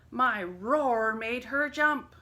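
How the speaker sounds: slow, loud bragging; boasting. A narrator's reading. Lion boasting to the others, slow and loud. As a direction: puff up and brag. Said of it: "boasted the lion".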